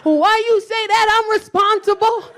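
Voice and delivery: playfully insulted denial; mock indignant. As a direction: act wounded and defensive. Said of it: "He said".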